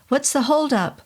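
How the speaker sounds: strained high voice trying to sound normal; nervous high question; high-pitched. Acted. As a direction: ask casually but the pitch jumps up. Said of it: "my voice came out pretty high-pitched".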